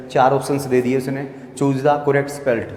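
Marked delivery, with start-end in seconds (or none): 1.6-2.7 slow quoted question. Shown as a demonstration. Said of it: "quoting exam question".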